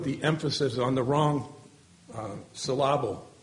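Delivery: "emphasis" and "syllable" each stressed wrongly on the middle syllable; joking misplaced stress. Shown as a demonstration. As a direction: playfully say em-PHA-sis and syl-LA-ble. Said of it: "as the old saying goes".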